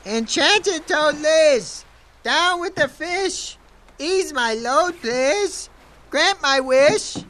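calling out. Acted. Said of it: "he called out".

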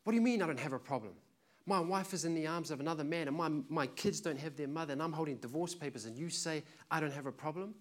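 hurt, loud indignation; offended protest. Retold or imitated. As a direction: fire back at God in disbelief. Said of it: "He got so offended and said".

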